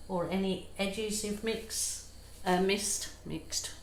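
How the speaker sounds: slightly slurring her words; words running together, tongue-tied; slurred words. Real, not acted. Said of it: "I'm slurring my words".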